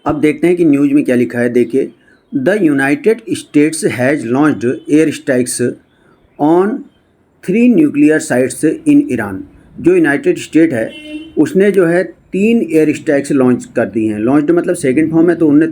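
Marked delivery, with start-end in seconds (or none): 2.4-9.4 slow, word-by-word English reading; read-aloud news text. Shown as a demonstration. Teacher reading a news report to students, slow read-aloud. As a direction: read it out slowly with gaps between phrases.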